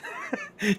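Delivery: real high-pitched laugh. Real, not acted. Commentator amused at being called Jeff, high laugh.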